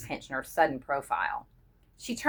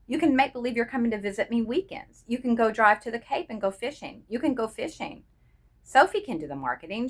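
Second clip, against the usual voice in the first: excited; 4 semitones higher than usual. Acted. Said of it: "voice had begun to take on excitement".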